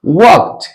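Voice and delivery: वॉक्ड as "walkt", released T at the end; final -ed as T. Shown as a demonstration. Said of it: "not walked".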